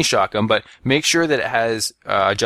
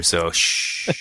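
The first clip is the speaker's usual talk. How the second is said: soft unvoiced shh; shushing; 5 semitones lower than usual. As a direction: hush them quietly. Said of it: "walk over quietly".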